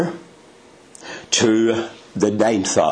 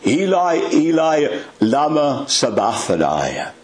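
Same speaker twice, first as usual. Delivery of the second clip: loud cry; 6 semitones higher than usual. Retold or imitated. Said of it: "cry out with a loud voice".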